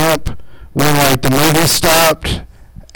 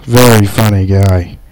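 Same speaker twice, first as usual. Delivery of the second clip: emcee hype; 3 semitones lower than usual. Real, not acted. Host keeping the crowd going between comics, emcee hype.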